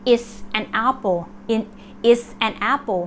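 IS reduced to an S sound before "an apple"; shortened is. Shown as a demonstration. Teacher showing learners the short answer form, contracted. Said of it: "ออกเสียง s".

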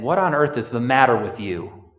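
loud, high, indignant outburst at a friend; rising fury, a sister scolding Jesus; Martha's loud, high, indignant rebuke of Jesus for coming late; exasperated scolding. Retold or imitated. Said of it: "She's saying".

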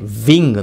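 "ving" starting on a buzzing V; clear V. Shown as a demonstration. Coach isolating the V sound, "ving" with a clearly buzzed V. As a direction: teeth on lip to open "ving". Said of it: "Vの音がすごい聞こえます".

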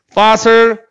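fossil with a clearly sounded F; F sound demo. Shown as a demonstration. Teacher repeats it for students, fossil with F sound. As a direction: model the F at the start of "fossil". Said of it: "F 사운드야".

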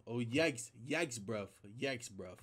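playful imitation of British slang accent; mock UK accent. Reactor mimicking the UK rapper's slang, mock British accent. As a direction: put on a teasing London accent. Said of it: "make fun of y'all accent".

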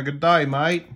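playful Aussie "g'day, mate"; mock Australian accent. Coin collector greeting an Australian coin, mock Australian accent.

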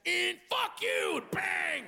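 high, slow shouted curse and bang; mock city yell. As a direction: bark it like a street stranger. New York noise imitated.

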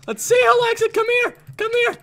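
high shrieked battle taunt; playful high-pitched war cry; taunting shout. Pretend. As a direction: shriek it as you chase them. Chasing an attacker in game.

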